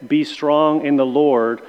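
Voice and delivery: BE pressed, slow; stress on BE. Shown as a demonstration. Class members reciting, stressing "Be". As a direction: lean on the word "Be", slowly. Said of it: "we emphasize a different word".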